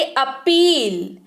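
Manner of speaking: अपील as "uh-PEEL"; pronunciation demo. Shown as a demonstration. Teacher telling learners how to read it, pronunciation demo of अपील. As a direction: model अपील with a short opening "uh". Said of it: "ये पढ़ेंगे".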